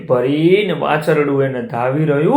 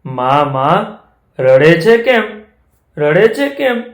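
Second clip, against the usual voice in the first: put-on child calf asking; 3 semitones higher, 3 dB louder than usual. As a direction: ask like an anxious child. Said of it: "વાછરડું કે".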